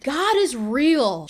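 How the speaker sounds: very slow, each word set down with weight; grandma's grave slow verdict, imitated; weighted grandma pronouncement. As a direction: imitate her solemn, heavy delivery. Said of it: "That's exactly the way she said it, with the same inflection and the weighted pauses".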